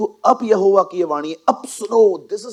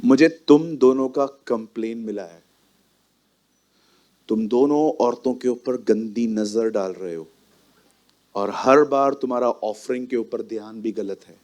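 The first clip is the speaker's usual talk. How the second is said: stern warning father; 4 semitones lower than usual. Shown as a demonstration. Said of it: "देखो, इस तरह से".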